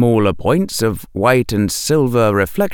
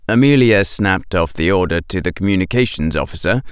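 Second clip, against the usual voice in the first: plain reading voice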